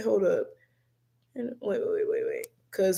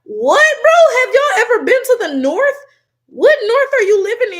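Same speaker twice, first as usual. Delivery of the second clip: high, loud disbelief; incredulous outburst; 12 semitones higher, 9 dB louder than usual. Real, not acted. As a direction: shout it, totally incredulous. Incredulous reaction to chat's claim.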